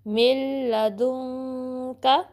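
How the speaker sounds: very slow मिल लदुन का with दुन hummed in the nose; nasal ikhfa. Shown as a demonstration. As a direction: hold nasal n of दुन before का. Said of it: "नाक में आपने ले जानी है".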